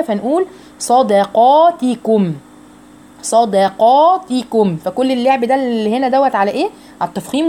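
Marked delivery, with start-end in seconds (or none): 0.8-4.8 صدقاتكم slow, heavy ص, light د. Shown as a demonstration. Teacher models the word for students, slow careful demo. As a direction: say صدقاتكم with ص thick and د thin. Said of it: "عايزينها تفضل مرققة".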